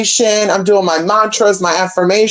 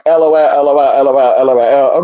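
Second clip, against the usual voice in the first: mock laughing off; 6 semitones lower, faster than usual. Imitating guy brushing off.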